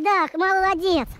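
drawn-out praise. Real, not acted. Praising the dog on a walk.

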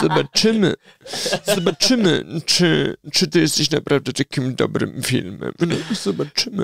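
low, doubtful put-on voice; a sceptic eyeing the film; skeptical deep voice. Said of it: "Fajny głos".

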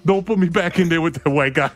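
high, begging please; pleading. Retold or imitated. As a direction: beg the coach not to send you in. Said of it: "And I'm like".

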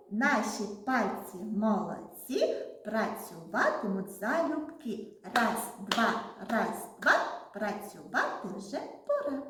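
rhythmic counting chant; singsong rhyme for children; finger-game rhyme. Shown as a demonstration. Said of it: "пальчикову гімнастику".

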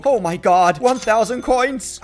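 loud gasp of delight, then slow amazement; thrilled, drawn-out exclamation; excited. Real, not acted. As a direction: marvel at the jackpot, stretching it out. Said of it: "why we get so excited".

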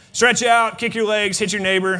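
rally the crowd to get up and stretch; called out. Real, not acted. Tells congregation to stretch.

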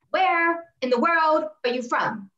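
retold, slow and puzzled demand; incredulous questioning. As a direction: mimic someone baffled by an accent. Imitates a puzzled barracks worker interrupting.

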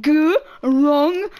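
"G-ronk-is" split into three beats; syllable by syllable. Shown as a demonstration. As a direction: sound out "G-ronk-is" slowly, piece by piece. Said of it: "It's pronounced Gronkus".

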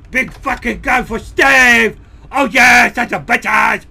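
hyped shout. Real, not acted. Gamer hyping up the minigun.

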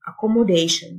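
"accommodation" with the ending said "shan"; tion as "shan". Shown as a demonstration. Teacher showing students that "accommodation" ends in a "shan" sound. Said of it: "التي آي أو إن تنطق شن".

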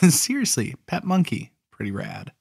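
amused chuckle through the words; laughing. Real, not acted. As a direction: laugh it off, tickled by the idea. Amused aside about pet monkey.

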